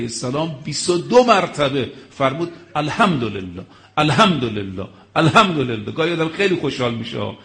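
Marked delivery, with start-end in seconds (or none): 2.8-5.9 laughing joy. Retold or imitated. Imam rejoicing at tyrant's punishment.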